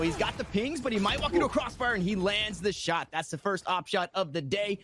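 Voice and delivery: quick live play-by-play call; esports caster. Acted. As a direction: call the round as it unfolds.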